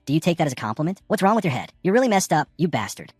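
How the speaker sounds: usual speaking voice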